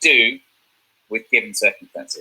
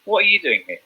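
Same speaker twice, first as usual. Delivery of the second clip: higher, pointed challenge; acting the subtext; 8 semitones higher than usual. Shown as a demonstration. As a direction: demand to know why they're here. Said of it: "Or you say".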